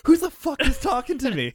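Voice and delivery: high sing-song voice; mock sing-song. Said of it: "I'm like".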